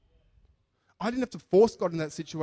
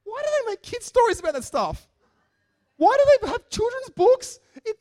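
put-on Indian accent; 9 dB louder than usual. Coworker outraged about the flood story, Indian accent. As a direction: rant in a pronounced Indian accent. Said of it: "he was really throwing his arms around".

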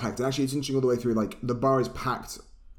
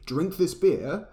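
higher, drawn-out order; acted command; 6 semitones higher, slower than usual. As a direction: lean slowly on a retold order. Acted order, slowed and raised.

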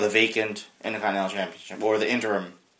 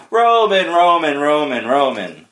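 Seth Rollins promo cadence; 3 semitones higher, 6 dB louder, slower than usual. Retold or imitated. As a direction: parody a wrestler's badly timed promo delivery. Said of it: "his promo cadence and his overall promo delivery".

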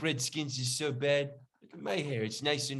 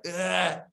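guttural grunt; 3 semitones higher than usual. Retold or imitated. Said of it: "emphasize it with a little guttural".

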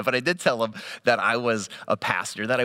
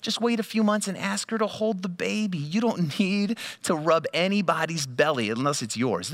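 dry retort; 5 semitones higher than usual. Retold or imitated. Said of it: "I'm like".

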